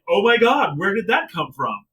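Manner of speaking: feigned shock; mock astonishment. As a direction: imitate someone caught totally off guard. Mocking a wrestler's surprised reaction.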